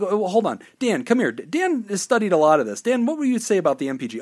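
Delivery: smooth-talk the customer, eager to close; pushy car salesman. Retold or imitated. Salesman calls over a colleague.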